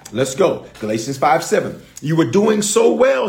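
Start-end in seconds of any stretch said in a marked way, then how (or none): 2.0-3.3 Paul's words, proclaimed. Acted. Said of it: "he says".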